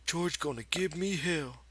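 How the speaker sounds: a big simple man talking to himself; Lenny's voice. A narrator's reading. Lenny alone by the pool, talking to himself, in a high childlike voice. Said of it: "he said".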